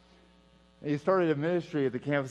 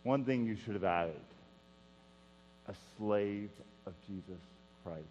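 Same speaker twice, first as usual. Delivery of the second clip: weak voice; 4 semitones lower, 5 dB quieter than usual. Retold or imitated. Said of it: "in his very weak voice".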